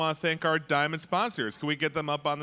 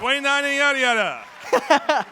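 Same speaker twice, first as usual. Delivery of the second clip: excited; 8 semitones higher, 6 dB louder than usual. Real, not acted. Excited repeat of total.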